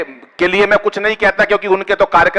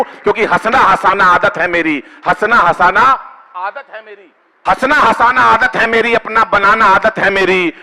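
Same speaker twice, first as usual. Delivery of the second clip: poem recitation; 3 semitones lower than usual. Acted. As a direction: recite the couplet to the crowd. Poet recites verse couplet.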